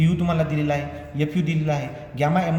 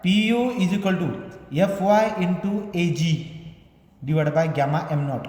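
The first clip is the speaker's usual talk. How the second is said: slow, measured formula dictation; much slower than usual. Real, not acted. Teacher giving students the load formula, slow dictation. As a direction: spell it out slowly for note-takers.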